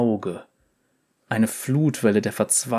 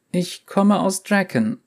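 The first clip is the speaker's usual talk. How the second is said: put-on young girl voice; 8 semitones higher than usual. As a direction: speak as a timid young girl. Girl speaking.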